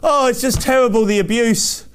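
put-on hand-wringing; mock concern. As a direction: mimic people pretending to be appalled. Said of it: "They want to sound like that".

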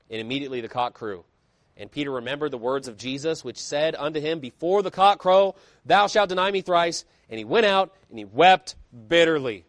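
measured, solemn reading of the King James text; scripture reading. Acted. Preacher reads Matthew aloud to the congregation, solemn scripture reading. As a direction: read the verses out to the church with weight.

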